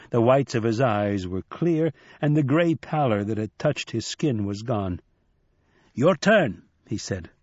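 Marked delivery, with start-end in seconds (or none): 5.9-6.6 put-on bright, higher old trickster voice; Nancy, raised and playful; lively old man. Nancy urging Shadow.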